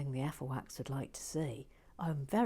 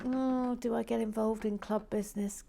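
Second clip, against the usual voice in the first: shy newcomer; 5 semitones higher than usual. Retold or imitated. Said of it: "sort of wondering".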